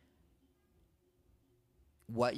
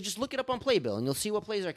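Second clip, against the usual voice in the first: quoting the mentor; 11 semitones higher, 4 dB louder than usual. Retold or imitated. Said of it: "He's like".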